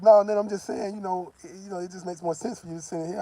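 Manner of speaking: a hint of a girlfriend talking him round; mock girlfriend voice.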